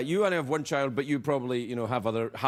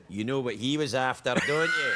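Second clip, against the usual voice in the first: Scottish masseur insinuating; 4 semitones lower than usual. Retold or imitated. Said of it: "And then the guy said".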